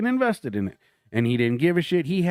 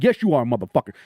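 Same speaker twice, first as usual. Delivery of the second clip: stern dad mode; 3 semitones lower, 3 dB louder than usual. Retold or imitated. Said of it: "I went from comedian to dad mode".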